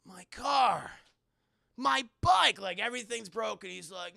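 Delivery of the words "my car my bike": mock lament. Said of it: "He's very sad".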